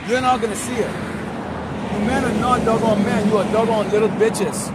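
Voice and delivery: loud, high furious berating; angry preaching rant. Real, not acted. Preacher berates the weak men, furious shouting. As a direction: tear into them with full force.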